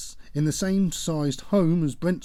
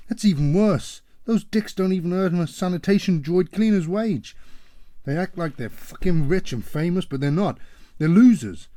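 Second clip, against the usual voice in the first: loud, high contemptuous rant; father raging about the boyfriend's family; scornful shouting; 5 semitones higher, 6 dB louder than usual. Acted. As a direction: spit each insult.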